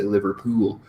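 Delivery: "Liverpool" in a mild Welsh accent; lightly Welsh "Liverpool", drawing out the last vowel. Shown as a demonstration. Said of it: "not as exaggerated for somebody who's Welsh".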